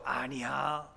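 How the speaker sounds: ordinary delivery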